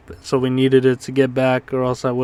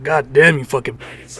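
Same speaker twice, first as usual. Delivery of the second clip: robot voice. Retold or imitated. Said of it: "it's gonna be all robot voice".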